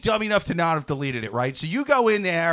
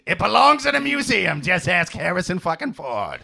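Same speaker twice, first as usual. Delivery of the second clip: raspy woman voice; 4 dB louder than usual. Acted. Continuing the ex's voice.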